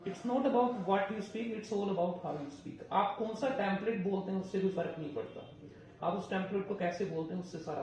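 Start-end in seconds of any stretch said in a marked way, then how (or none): 0.1-2.8 very slow, leaning hard on NOT and ALL; slow emphatic maxim. Shown as a demonstration. Teacher to PTE students, driving home the maxim, very slow and emphatic. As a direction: spell it out word by word so it sticks.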